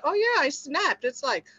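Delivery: a caught-out Martha owning up; lightly voiced Martha admitting she snapped; sheepish Martha. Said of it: "I bet you she said".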